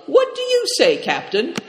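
loud question pitched very high; talking loudly. A narrator's reading. Moonlight appealing to the captain, loudly. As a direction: call it out high and loud, for show. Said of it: "Moonlight was talking so loudly".

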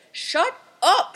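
high, loud outburst; explosive high-pitched yell; angry shout. A narrator's reading. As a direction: shout him down. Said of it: "shouted the man".

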